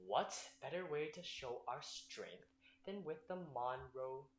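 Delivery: slow conspiratorial whisper. Acted. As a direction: whisper the big idea.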